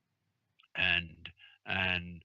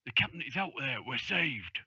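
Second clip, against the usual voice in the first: understated excitement, a little higher; excitedly; 5 semitones higher than usual. Acted. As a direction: bring good news with mild eagerness. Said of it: "And then, excitedly".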